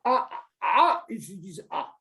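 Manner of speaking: "A" said alone, then drawn out slowly; demonstrated vowel pronunciation. Shown as a demonstration. Teacher shows David how some pronounce it, drawn-out "A". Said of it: "il est comment tu prononces".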